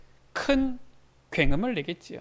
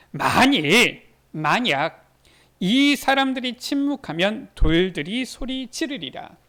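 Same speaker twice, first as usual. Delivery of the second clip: emphatic scripture quote; 6 dB louder, slower than usual. Acted. Preacher quoting Jesus emphatically.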